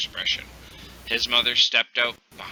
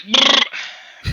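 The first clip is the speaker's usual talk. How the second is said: rapid brrr noise; 7 dB louder than usual. Shown as a demonstration. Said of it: "it was automatic".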